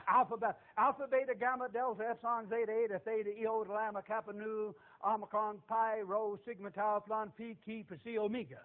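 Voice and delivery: memorized letters, one after another; rote recitation. Shown as a demonstration. Preacher shows off his learned Greek alphabet, rote recitation. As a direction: reel off the list in an even run.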